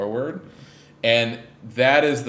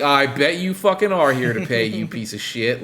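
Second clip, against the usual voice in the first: 1 mock threat; 3 semitones higher, 4 dB louder than usual. Creditors threatening Bourbon.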